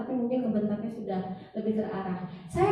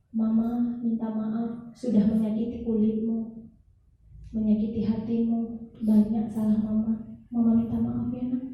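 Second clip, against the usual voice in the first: tender slow apology; slower than usual. Retold or imitated. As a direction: ask forgiveness slowly and gently, as to a weeping child. Mother tearfully apologizing to child. (permintaan maaf ibu yang lembut dan sangat pelan)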